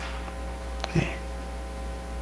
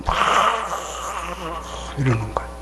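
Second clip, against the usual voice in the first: Cain's scowling face; 6 dB quieter, much faster than usual. Shown as a demonstration. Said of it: "그 가인 얼굴이 돼갖고".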